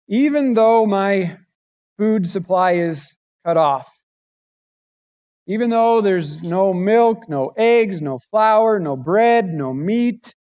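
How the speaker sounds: preacher's swelling recital of loss; impassioned reading. Acted. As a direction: build the list with fervor. Preacher reads Habakkuk's lament building.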